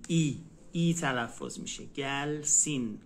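slow "گلسین" ending in gel-seen with front i; dotted i. Shown as a demonstration. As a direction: say "ای" as a clear ee. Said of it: "آی با نقطه است".

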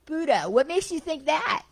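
high, loud challenge; heckling. Retold or imitated. Heckler challenging the lecturing Buddha, loud scornful call. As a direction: throw it at him with scorn.

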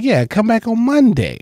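mock the host's perfect English, slowly and high; comic mocks the host's proper speech, high and slow; proper Tony. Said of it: "He almost speaks perfect English".

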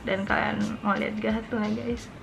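muffled behind cupped hands; speaking through her hands. Real, not acted. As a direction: hands covering the mouth. Seen 2: Both hands cupped over her mouth throughout the labelled words.

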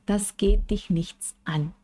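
slow, mildly curt "Das geht dich nichts an"; teacher modelling a curt brush-off in German; dismissive reply. Shown as a demonstration. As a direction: brush off a nosy question. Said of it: "de una forma muy natural".

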